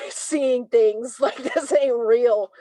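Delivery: laughing through the words in disbelief; real chuckle while speaking. Real, not acted. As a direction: brush it off with a laugh.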